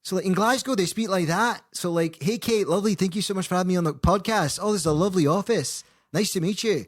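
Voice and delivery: high, loud Glaswegian accent put on; chatty Glaswegian host greeting in a thick Glaswegian accent. Showing the podcast host a Glaswegian accent, high and loud. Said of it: "Have you ever heard a Glaswegian accent?".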